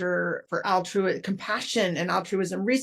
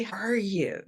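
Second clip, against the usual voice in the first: gentle, sincere how-are-you; soft check-in, falling at the end; caring greeting; 3 dB quieter than usual. Shown as a demonstration. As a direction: ask as if you truly care. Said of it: "when I say".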